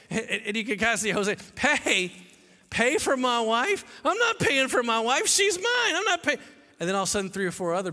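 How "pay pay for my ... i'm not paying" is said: outraged refusal, building. Acted. Hosea refuses to pay.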